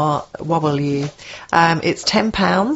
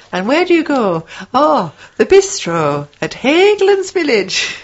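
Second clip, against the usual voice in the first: bad Scottish accent; 6 semitones higher than usual. Shown as a demonstration. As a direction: ham up the question and answer in fake Scottish. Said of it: "That is my Scottish accent".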